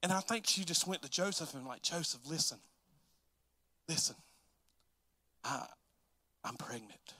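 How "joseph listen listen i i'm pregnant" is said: tag. Acted. Mary hesitantly confesses to Joseph.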